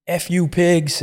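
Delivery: put-on a drugged kid yelling at cops; mock high yell at the police. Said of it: "And he's like".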